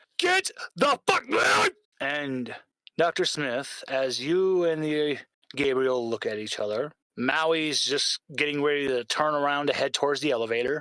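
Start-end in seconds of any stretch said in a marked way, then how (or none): 0.2-1.7 shrill, very high, frantic panicked shout. Voicing an unseen character over the comm: very panicked shout. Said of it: "you just hear a very panicked".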